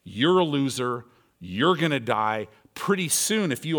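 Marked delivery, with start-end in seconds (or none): 0.1-2.5 taunting voice. Acted. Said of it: "that voice that's in your face going".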